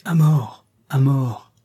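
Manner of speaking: acted mob demand; crowd's angry cry. Irritated crowd demands death, angry cry.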